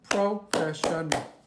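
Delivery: "Professional" slowly split as pro, fesh, un, ul; syllable by syllable. Shown as a demonstration. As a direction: sound out "Professional" in four slow, separate beats. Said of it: "we're gonna count the syllables".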